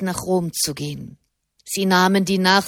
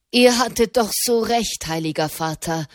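1 beaming; 2 semitones higher than usual. Acted. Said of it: "strahlte Tommaso di Petra".

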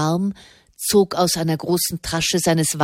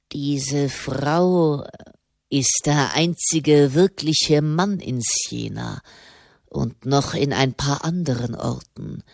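lightly voiced commander, weighing his words; a hint of a grave military man; lower, deliberate character voice; English commander, measured; 3 semitones lower than usual.

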